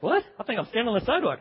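quick, puzzled mock reaction; playfully bewildered, hurried; baffled newcomer. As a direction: rattle it off as a confused literal thinker. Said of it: "you're looking around like".

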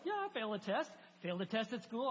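lightly voiced eager kid; a hint of a candid schoolkid; kids owning up. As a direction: pitch it up at first, like a child volunteering. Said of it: "we have the kids here".

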